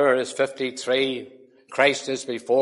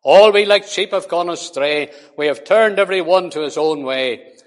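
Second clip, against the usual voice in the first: measured, solemn reading of scripture; 4 dB louder than usual. Acted. Preacher reading Isaiah to the congregation: solemn reading. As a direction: read it out as holy words.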